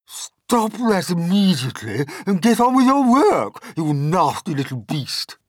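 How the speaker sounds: high, loud bossy command; Aunt Sponge ordering. Acted. Aunt Sponge ordering James back to work, loud and high. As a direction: bark the order at the boy. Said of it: "Aunt Sponge ordered".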